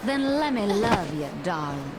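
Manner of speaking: put-on Kansai accent. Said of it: "but in the Kansai dialect".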